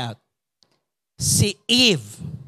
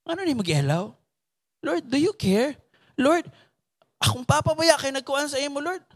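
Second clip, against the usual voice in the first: pleading prayer; 7 semitones higher than usual. Retold or imitated. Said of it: "adayantay ka na nga".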